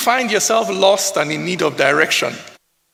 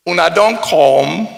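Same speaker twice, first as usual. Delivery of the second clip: Pidgin welcome; 5 dB louder than usual. Shown as a demonstration.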